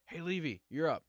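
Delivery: high, loud imitated summons; mock holler to someone across the yard; calling out. Trainers summon Levy for her turn, calling out.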